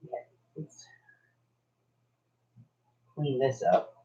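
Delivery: mumbling around pins held in lips; pins in mouth. Real, not acted. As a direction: talk with pins clamped in mouth. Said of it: "I only speak a special language when I have pins in my mouth".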